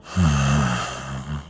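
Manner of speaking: slow, low exhale; long sigh. Acted. Walter pities poor Nancy, long sigh. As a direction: let out a long breath. Villain sighs over the girl.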